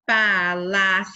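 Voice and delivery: Palaciano said loud, in clear syllables; syllable demo. Shown as a demonstration. Teacher to children, loud syllable demo. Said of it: "Quantas sílabas nós temos aqui?".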